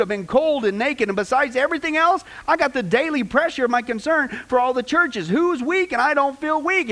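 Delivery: preacher voicing an apostle's fervent defense; Paul. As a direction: rattle off the hardships in a driving, rising litany. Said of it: "Paul is defending his apostleship".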